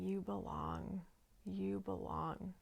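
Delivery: slow, soft, gently repeated; calm. Retold or imitated. To the writhing figure, calmly repeating. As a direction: keep soothing her, unhurried. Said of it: "I kept saying calmly".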